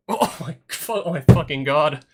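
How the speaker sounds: real laugh into a slow oh my god; laughing disbelief. Real, not acted. Streamer reacting to Yuji telling Michiru shut up, laughing. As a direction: crack up in shock.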